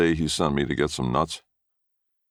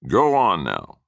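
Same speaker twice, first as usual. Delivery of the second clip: high, loud furious bellowing; raging yell; 11 semitones higher, 5 dB louder than usual. A narrator's reading. Grandfather raging at the stubborn boy, loud and high. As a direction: rage at the boy who won't move. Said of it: "He yelled and he raged".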